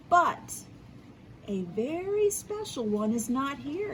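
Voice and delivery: lively read-aloud storytelling with voiced quotes; story narration. A narrator's reading. Teacher reading an Easter story to her class, lively storytelling. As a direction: read it like a picture book to young kids.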